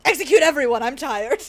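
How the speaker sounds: loud laughing order to execute everyone; mock decree, cracking up; laughing mock command. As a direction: bark it out while laughing, mock tyrant.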